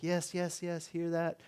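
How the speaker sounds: lightly voiced, agreeable interviewer; agreeing interviewer. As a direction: humour the athlete as a reporter. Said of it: "sort of interviewer's like".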